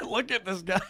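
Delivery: laughing out loud; laughing shout. Real, not acted. Laughing at the sniper.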